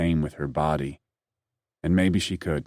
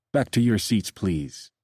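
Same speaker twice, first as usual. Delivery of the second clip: chiding; 5 semitones higher than usual. A narrator's reading. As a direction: tell them off like a stern attendant. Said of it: "he said in a chiding tone".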